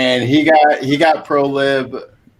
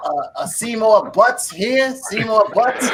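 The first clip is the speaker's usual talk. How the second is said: higher-pitched cartoon bartender voice; Moe taking a prank call; 7 semitones higher than usual. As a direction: call out an unsuspecting prank name to the bar. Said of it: "like Bart Simpson calling Mo".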